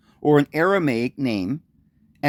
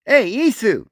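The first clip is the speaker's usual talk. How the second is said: much higher call of Isu; family calling Jesus, high; 8 semitones higher, 3 dB louder than usual. Retold or imitated. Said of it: "Isa or Isu".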